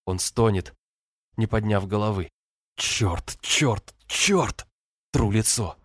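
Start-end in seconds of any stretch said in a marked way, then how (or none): 2.8-4.6 от тихого «чёрт» к отчаянному выкрику; каждое «чёрт» выше предыдущего; нарастающее «чёрт». A narrator's reading. (ругается в отчаянии, нарастая)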